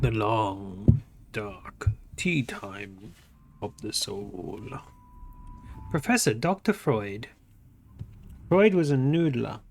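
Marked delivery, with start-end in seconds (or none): 0.0-4.6 mock ominous. Joke riff on chapter title.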